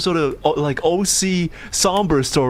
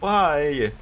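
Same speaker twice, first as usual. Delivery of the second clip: soft, tearful self-pity; quiet, upset whine; drama queen; 5 dB quieter, slower than usual. Real, not acted. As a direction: moan it softly, on the edge of tears. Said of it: "such a fucking drama queen".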